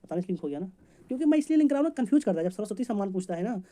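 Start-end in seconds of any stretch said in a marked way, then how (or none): 1.1-2.4 higher and louder, pressing the point; emphatic. Real, not acted. Teacher to students, explaining the link, emphatic and louder. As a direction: lean hard on why he links it.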